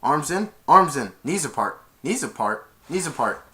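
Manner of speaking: loud, high repeated commands ending in a question; mock drill sergeant; drill instructions. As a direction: chant orders then balk. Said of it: "and they went".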